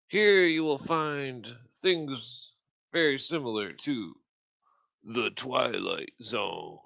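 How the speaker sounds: slow, dramatic show intro voice; announcer voice. Acted. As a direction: drawl it like a TV host.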